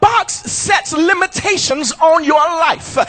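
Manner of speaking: shouted preaching, pounding every line; preaching at full force. Acted. Pastor preaching to his church, full-force shouted preaching. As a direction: hammer it home like a revival preacher. Preacher drives home the box.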